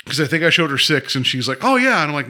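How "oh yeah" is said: wife's higher-pitched 'of course', imitated; retold breezy recognition. Wife claiming she has seen the film, imitated high and breezy. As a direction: lightly imitate someone sure they remember.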